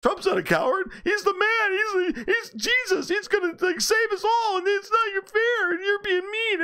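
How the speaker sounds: very high, whiny falsetto, half crying, half shouting; mocking crybaby Trump fan. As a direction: wail like a hurt fanboy defending his hero. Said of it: "They all yelled at me. I said".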